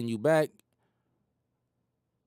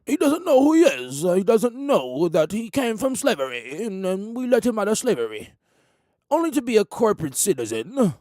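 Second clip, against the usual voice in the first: a hint of a smug, higher voice; sneering official; 3 semitones higher than usual. Officials mocking the black man they freed, sneering voice. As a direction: look down on him while you talk. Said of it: "they put that ugly face on, and they say".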